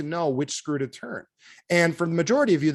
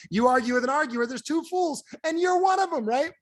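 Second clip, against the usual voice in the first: climbing higher with each phrase; rising point; 12 semitones higher than usual. Real, not acted. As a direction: build the punchline upward. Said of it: "preacher points up punchline".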